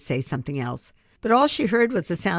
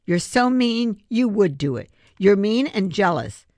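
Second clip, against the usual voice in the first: loud, hurt accusation; angry sputter; 6 semitones higher, 5 dB louder than usual. Acted. Rex sputters angrily at Abby, loud and hurt. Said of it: "Rex sputtered".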